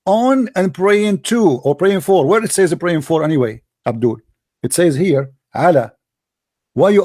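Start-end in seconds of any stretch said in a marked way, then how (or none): 0.0-1.6 "on" and "to" stretched out slowly; contrasting prepositions. Shown as a demonstration. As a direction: draw out "on", then land on "to". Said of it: "There's a difference between praying".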